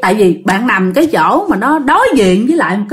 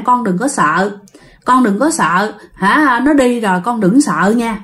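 reassuring. Acted. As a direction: soothe a frightened child. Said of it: "ông mới nói với bạn".

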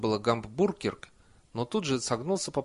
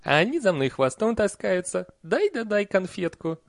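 put-on high, loud old-nanny voice; insistent Nanny; 9 semitones higher, 6 dB louder than usual. A narrator's reading. Nanny boasts that children tag after her, insistent. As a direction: push the argument home.

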